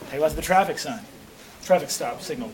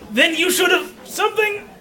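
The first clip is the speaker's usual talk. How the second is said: building villain cry; 5 semitones higher than usual. Acted.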